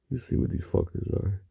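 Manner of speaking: hushed unvoiced whisper. Real, not acted. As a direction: breathe it out as a secret. Confiding aside to viewers.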